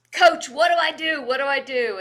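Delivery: rushed worried asking; panicked question. Retold or imitated. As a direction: sound suddenly nervous. Panicked player asks coach.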